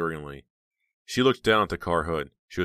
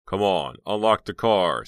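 cheerfully; 3 semitones higher, 7 dB louder, slower than usual. Acted. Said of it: "Snowman said cheerfully".

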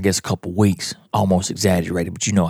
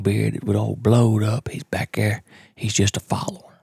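whisper. Real, not acted. Describing turkey approach, hushed.

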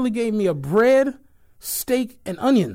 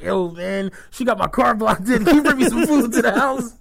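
mock desperate phone call; 4 semitones higher than usual. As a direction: beg your buddy for food through laughter. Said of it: "calling your homie like".

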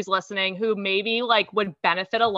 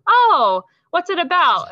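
imitating mom; 9 semitones higher, 5 dB louder than usual. Voicing curious mom in story.

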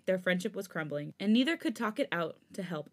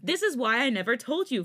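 louder, voice cracking; raised voice; 5 semitones higher, 7 dB louder than usual. A narrator's reading. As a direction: raise your voice, nearly breaking. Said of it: "Felix raised his voice".

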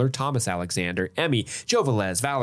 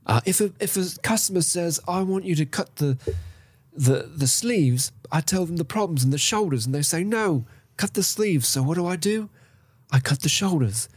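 higher, measured storyteller voice with a sly edge; Leonard narration impression; 8 semitones higher than usual. Host reciting Leonard's tailor story, higher and measured. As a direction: tell the tailor's trick like a patient craftsman. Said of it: "This begins the next set of, uh, narration by, uh, Leonard".

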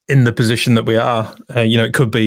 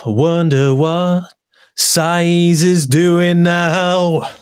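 mock wistful echo; 5 semitones higher, much slower than usual.

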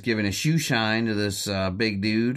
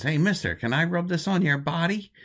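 much higher, squeaky stooge voice; Curly voice; 11 semitones higher than usual. Retold or imitated. Curly asks a stranger to rub his car, in a squeaky stooge voice. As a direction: pipe it up like a goofy stooge. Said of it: "He says".

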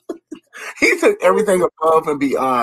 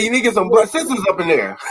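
laughing quote; 3 semitones higher, faster than usual. Retold or imitated. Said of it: "He said".

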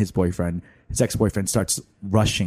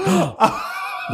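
high, drawn-in gasp; acted shocked gasp. Acts own shocked reaction.

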